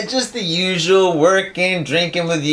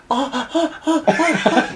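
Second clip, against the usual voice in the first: mock laugh; 9 semitones higher than usual. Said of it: "she went more like this".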